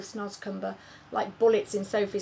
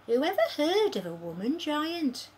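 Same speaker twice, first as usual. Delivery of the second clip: shouting; 7 semitones higher than usual. Acted. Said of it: "shouted the B F G".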